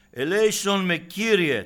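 high, loud pleading shout; desperate cry for mercy. Acted. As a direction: cry out to the Lord with all your strength. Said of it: "εκράβγασε δυνατή φωνή και λέει". (δυνατή, απελπισμένη κραυγή)

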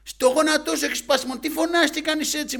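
loud, high-pitched acted berating; scolding doctor. Doctor dismissing a patient's broken knee, angry scolding. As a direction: tell the patient off at full volume. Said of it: "Με έβριζε κιόλας".

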